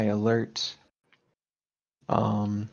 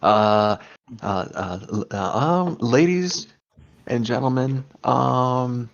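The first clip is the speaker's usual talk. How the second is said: frantic announcer; 3 semitones higher than usual. Acted. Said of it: "Charlie's very frantic voice".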